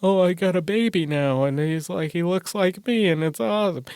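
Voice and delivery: high, loud mock doting dad voice; mocking gushing new dad. Mocking a guy who brags about his baby, high doting coo. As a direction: ham up a guy cooing over his baby. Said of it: "when a guy's like".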